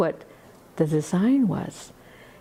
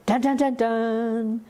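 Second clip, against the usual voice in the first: imitating music; 4 semitones higher, slower than usual. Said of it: "he'd play music from Mozart".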